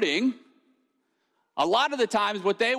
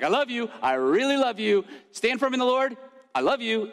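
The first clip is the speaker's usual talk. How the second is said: lightly hammed-up, infatuated gushing; slightly higher, playfully over-the-top devotion; mock lovestruck elf, lightly voiced; gushing Buddy the Elf; 4 semitones higher than usual. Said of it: "over-the-top infatuation of love".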